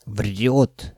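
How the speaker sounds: ordinary delivery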